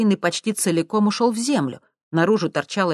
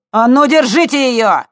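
very loud, higher, slow; shouted order; 9 semitones higher, 11 dB louder than usual. A narrator's reading. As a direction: command the gang. Thug orders his mates. (громкий приказ)

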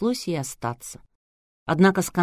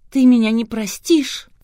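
slow, higher, louder tearful begging; a weepy heroine asking her fiancé to forgive her; tearful plea; 6 semitones higher, 7 dB louder than usual. A narrator's reading. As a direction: beg for forgiveness through tears. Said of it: "под конец раскаялась и разревелась".

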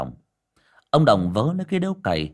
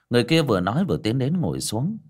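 ordinary delivery

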